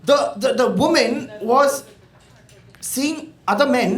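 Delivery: slow, drawn-out scandalised disbelief; mock disbelief. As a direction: stretch it like you can't believe it. Mock gossip outrage banter.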